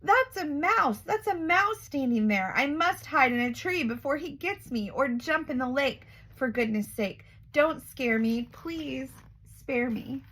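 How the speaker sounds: panicked elephant. Acted. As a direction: squeal in fright, then beg. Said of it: "shouted the elephant".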